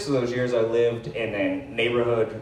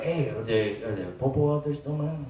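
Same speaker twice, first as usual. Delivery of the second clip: imitated Latino accent; 4 dB quieter than usual. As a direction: check casually in a put-on Latino accent. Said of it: "I apologize for the accent".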